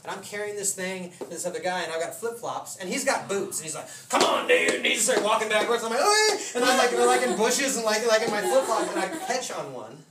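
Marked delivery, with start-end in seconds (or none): 4.1-4.7 loud, rough holler to a companion; calling out. Retold or imitated. Friend urges him on while carrying wood, loud holler. 6.0-6.4 high, loud strained squeal; strained reply. Retold or imitated. Struggling carrier answers his friend, high strained yelp.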